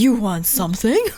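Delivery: put-on husky voice. Repeating a character's line, in a husky voice. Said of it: "that husky voice".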